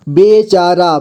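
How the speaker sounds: बेचारा in measured, separate syllables. Shown as a demonstration. Teacher showing learners how to read बेचारा, syllable by syllable. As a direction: sound out बेचारा piece by piece. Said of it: "जोड़ जोड़ करके".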